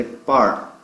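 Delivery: "par" said slowly as the strong syllable; stress on PAR. Shown as a demonstration. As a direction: hit "par" and hold it. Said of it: "a sílaba". (sílaba forte "par", bem marcada e alongada)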